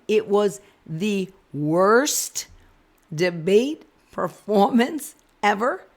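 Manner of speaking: loud, slow, driving home the worst; emphatic outrage. Real, not acted. Vlogger to viewers about the debate, loud and emphatic. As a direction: lean hard on every word.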